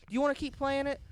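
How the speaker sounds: put-on high, loud kid voice; eager child asking; mock child. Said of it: "the kid's like".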